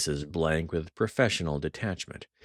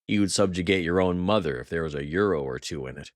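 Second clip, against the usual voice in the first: raw fury; faster than usual. Acted. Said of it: "his voice raw with fury".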